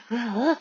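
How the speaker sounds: throaty mock growl; imitated gorilla grunt. Teacher imitates Jack's gorilla noises, mock grunt. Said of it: "하는 소리를 막 내는 거지".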